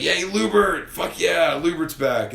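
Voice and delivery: high, loud fan cheer; retold excited cheer. Fan reacting to Lubert's return, high excited cheer. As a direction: whoop it up for a returning favorite. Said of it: "I was like".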